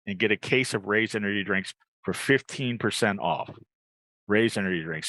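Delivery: upbeat host selling a drink; live ad read. Acted. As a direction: pitch it like a live commercial.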